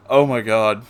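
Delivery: usual speaking voice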